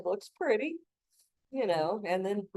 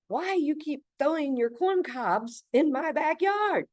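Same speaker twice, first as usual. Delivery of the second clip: imitating a Polish neighbor, higher and slow; a half-hearted Polish accent, pitched up, dragged out; the speaker's Polish accent; 9 semitones higher, 6 dB louder, slower than usual. Neighbor complaining about corn cobs, in a mock Polish accent. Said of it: "I can't do his accent".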